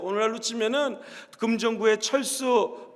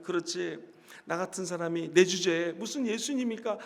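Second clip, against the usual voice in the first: much lower and softer, a self-belittling aside; resigned mutter; 8 semitones lower, 9 dB quieter than usual. Acted. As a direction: mumble it to yourself, giving up. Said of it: "보통 사람 같았으면".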